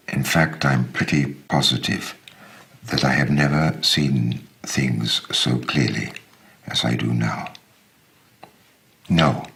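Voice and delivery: measured, intimate letter reading; story narration. A narrator's reading. Reader voicing a letter to his friend Mustafa, measured narration. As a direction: read it like a heartfelt letter to an old friend.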